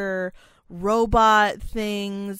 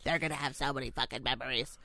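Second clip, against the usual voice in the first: muttered aside; 6 semitones lower, 10 dB quieter than usual. Retold or imitated. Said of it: "And I was like".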